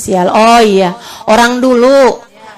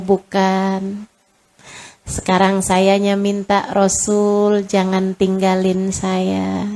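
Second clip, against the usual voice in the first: comforting; 3 semitones lower, 4 dB quieter than usual. Retold or imitated. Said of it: "Saya bilang".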